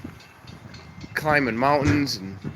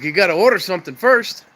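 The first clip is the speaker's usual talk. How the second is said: louder, higher mock-gruff diner owner; 7 semitones higher, 6 dB louder than usual. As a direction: bark it back like a grumpy counterman. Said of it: "He's like".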